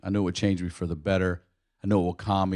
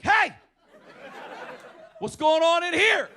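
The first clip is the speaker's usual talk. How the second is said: high startled yelp of a dad. Retold or imitated. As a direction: jump in shock, voice shooting up. Dad startled by daughter in bath.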